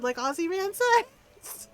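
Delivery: slow explanation. Retold or imitated. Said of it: "and I said".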